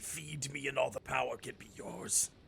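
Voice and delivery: breathy whisper. Voicing a cursed sword that tempts its wielder: speaking as the sword. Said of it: "quoth they".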